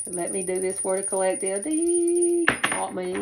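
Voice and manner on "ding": mimicked chime, much higher and louder; high sung bell ding. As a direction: ring it out like a bell.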